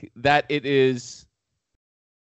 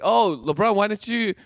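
eager coach; 6 semitones higher than usual. Acted. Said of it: "He's like".

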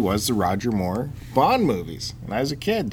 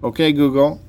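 calling voice assistant; 3 semitones higher, 5 dB louder than usual. Real, not acted. Waking phone assistant.

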